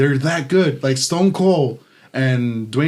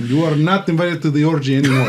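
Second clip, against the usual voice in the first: Zeus impression; 4 semitones higher than usual. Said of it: "That's very Greek".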